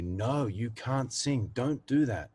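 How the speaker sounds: doubting inner voice. Retold or imitated. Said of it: "the small voices say".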